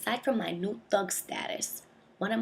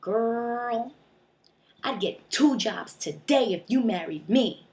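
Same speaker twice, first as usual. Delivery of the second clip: louder, slower voice of a sleazy suitor; mock catcaller; 4 semitones higher, 5 dB louder, slower than usual. Middle-aged man hitting on her at the subway, mock smooth pickup line. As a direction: drawl it like a hopeful pickup line. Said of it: "comes up to me and is like".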